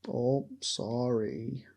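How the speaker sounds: slow, drawn-out Canadian apology; badly faked Canadian accent, stretched vowels; attempted Canadian accent. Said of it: "I can't do Canadian or Boston".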